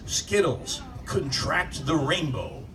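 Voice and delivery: slow, lingering slogan read; lightly done commercial tagline; mock ad tagline. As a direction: sell the slogan like a cheesy ad voice. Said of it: "the new tagline for Skittles".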